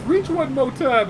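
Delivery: high, drawn-out threatening order; slow menacing mom. Retold or imitated. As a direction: spell it out slowly, daring him.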